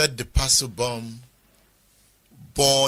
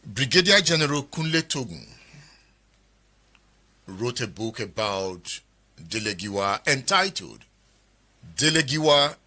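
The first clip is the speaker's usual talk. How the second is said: presenter's introduction. Acted. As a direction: introduce the book formally, with deliberate pauses.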